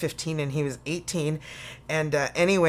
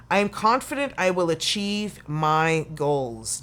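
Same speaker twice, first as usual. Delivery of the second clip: affirmation read. Shown as a demonstration. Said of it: "you should keep repeating that".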